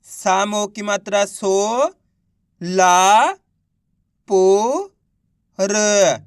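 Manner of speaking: सो, ला, पो, र held long, one at a time; spelling out syllables. Shown as a demonstration. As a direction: sound out सो, ला, पो, र with clear gaps. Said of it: "एक एक अक्षर का उच्चारण". (सो, ला, पो, र को अलग-अलग खींचकर बोलना)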